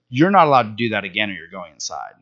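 mildly stern retold warning. Father warning his son on the bike, mildly stern. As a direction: lay down the rule, a touch stern. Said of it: "be a little stern with him".

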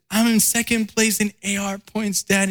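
high, pleading little-girl voice with a hint of tears; daughter crying. Daughter tells dad about second place, high tearful imitation. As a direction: mimic his daughter insisting through tears. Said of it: "And she was crying".

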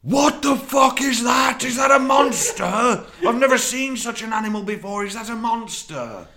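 shouted alarm at a monster; loud shout. Acted. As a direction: bellow it out in mock panic. Loud shouted mock reaction.

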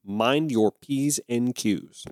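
slow, precise teacher-style enunciation; carefully enunciated. Retold or imitated. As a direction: enunciate each word slowly, like a careful teacher. Quoting enunciating first grade teachers.

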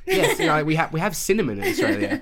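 high, loud incredulous reply. Retold or imitated. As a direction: answer as if the question were absurd. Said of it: "I'm like".

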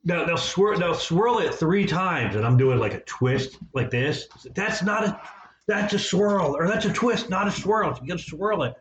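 high-pitched mock nurse voice, slow on the swirl; imitating test lady. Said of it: "She's like".

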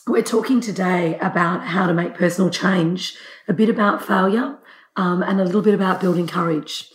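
hoarse from a cold; husky, cold-roughened voice. Real, not acted. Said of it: "my drag voice on".

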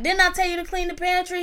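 high nagging mom voice; scolding mom. Retold or imitated. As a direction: nag the kid from up high.

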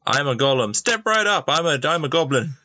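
high carnival pitch; barker call. Acted. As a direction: hawk it to passersby. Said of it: "you're doing both parts".

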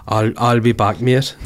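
a light mock Newcastle accent on I'll, I'll be back, mate; tossing off the Terminator line in mild mock Geordie. Host jokes Schwarzenegger sounds Newcastle, mock Geordie accent. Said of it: "like, a Newcastle?".

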